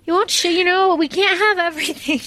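high, giggly, breaking up mid-word; laughing. Real, not acted. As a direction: laugh through the joke about him talking. Laughing at her own joke.

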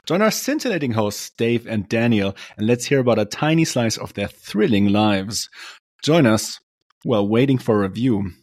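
upbeat announcer read over music; podcast intro read. Acted. Host opening the show to listeners, announcer style. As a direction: hype up the show like a radio intro.

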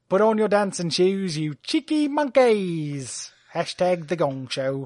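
slow, hammed-up showman read; Tommy Maitland voice. Reading Tommy Maitland's tweets in his voice, slow showman style. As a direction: stretch it out like a cheesy game-show host. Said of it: "read me a couple in his voice".

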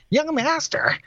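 put-on high, hammy old prospector voice. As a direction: drawl it like a grizzled gold miner. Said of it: "He sounds like a prospector".

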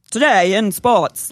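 put-on slow, deliberate old radio sportscaster; old-time sportscaster. Shown as a demonstration. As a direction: announce it like a newsreel. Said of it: "they all talk like that".

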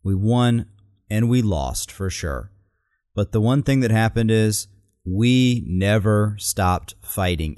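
slow, punched words; emphatic quote. Retold or imitated. Quoting the candidate's emphasis on never stopped fighting. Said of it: "she really emphasizes that".

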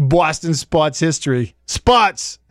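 mock Boston accent; playful Boston accent, R dropped. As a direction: say "sports" as "spots", Boston style. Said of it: "have a cool accent".

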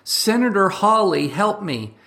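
high whiny plea; mock plea for help. Mocking canceled pundits, a high whiny cry for help. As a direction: whimper for rescue in a mocking way. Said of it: "they're like".

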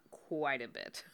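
whispered aside. Real, not acted. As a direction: breathe it as a whisper. Echoed in a whisper.

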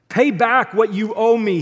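loud, high-pitched demand. A narrator's reading. Forgiven servant choking his debtor, loudly demanding. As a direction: read it as a forceful order. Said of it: "he demanded".

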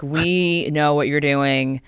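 slow, deliberate menacing warning; ominous warning. Retold or imitated. The fine letter to her friend, read slowly and menacingly. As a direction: spell it out slowly like a threat. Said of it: "they're like".

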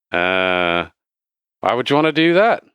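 wavering semi-Australian bartender; semi-Australian accent. Acted. Dumbfounded bartender questions a customer, semi-Australian accent. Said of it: "I'm trying to go semi-Australian".

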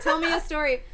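repeating a friend's catchphrase; quoting Dan. Retold or imitated. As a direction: say it like a borrowed line. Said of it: "that is a Danism".

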